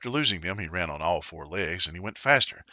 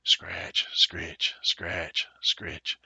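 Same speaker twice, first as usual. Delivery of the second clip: hoe scratching sound; 3 semitones lower, much slower than usual. A narrator's reading. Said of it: "noise of a hoe".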